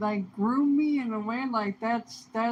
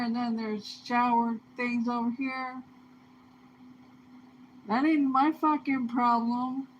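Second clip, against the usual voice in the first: defiant rant; 3 semitones higher than usual. Retold or imitated. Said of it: "I was like".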